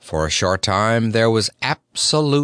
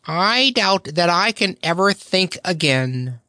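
a lightly voiced dazed camel; dazed dromedary; 8 semitones higher than usual. A narrator's reading. Dazed Dromedary doubting he can think, lightly voiced. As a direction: drift through it half lost. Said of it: "in a dazed fashion".

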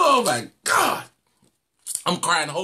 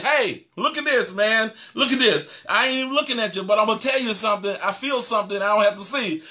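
seraph calling out; 3 semitones higher than usual. Acted. Seraph calls to another about what he feels, calling out. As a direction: call over to a fellow angel, pitched up. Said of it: "one cried unto another".

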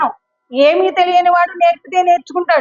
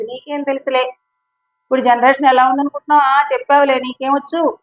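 mocking dismissive child. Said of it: "ఇట్లా మాట్లాడకూడదు".

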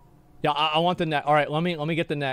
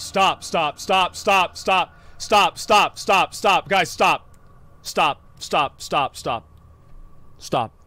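urgent yelling stop; slower than usual. Real, not acted. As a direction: shout at them to stop, over and over. Begging raid not to loot.

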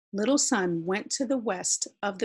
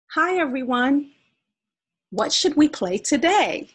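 sunny greeting, pitched up and louder; bright high greeting; 7 semitones higher, 6 dB louder than usual. Acted. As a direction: call out cheerfully to everyone. Little Sun greets again, higher.

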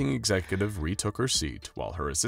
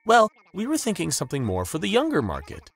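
declaring; 12 semitones higher, 5 dB louder than usual. A narrator's reading. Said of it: "she declared".

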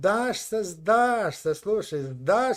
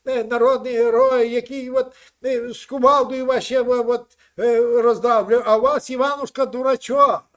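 loud, heated bragging; loud heated lecture; loud boast; 3 semitones higher, 7 dB louder than usual. Real, not acted. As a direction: boast over him loudly. Heated boast about Ukrainian hero.

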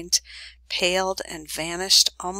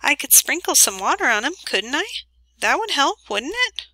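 alarmed; 7 semitones higher than usual. A narrator's reading.

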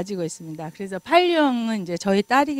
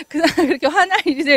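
fast, higher, louder retort; mock snippy child arguing back, quick and higher; argumentative child; 7 semitones higher, 7 dB louder, much faster than usual. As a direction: challenge mom like a know-it-all kid. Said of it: "이렇게 따지는 경우가 있어요".

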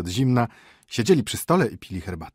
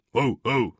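dog's bass bark; 4 semitones higher, 6 dB louder than usual. Acted. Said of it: "ryczał basem milord".

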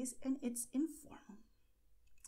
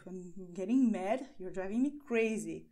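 mock annoyance, a little louder; mildly mad; 3 semitones lower, 4 dB louder than usual. Shown as a demonstration. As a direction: act out being fed up, lightly. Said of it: "And it can be negative".

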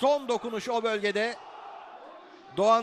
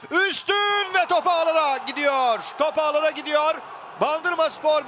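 excited goal call; 5 semitones higher than usual. Real, not acted. Goal scored, commentator calls it.

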